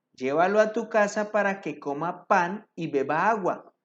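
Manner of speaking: emphatic reading of a Bible story; scripture narration. A narrator's reading. Preacher reads the prophet's story to the congregation, emphatic narration. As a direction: read scripture out with measured emphasis.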